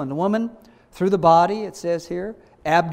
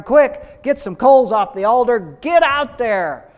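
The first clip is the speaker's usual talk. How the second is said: Moses shouting orders, urgent and loud, higher; 4 semitones higher, 7 dB louder than usual. Acted. Moses urgently shouting to Aaron to grab coals. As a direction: bark the rush of the judgment coming. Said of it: "And Moses says to Aaron".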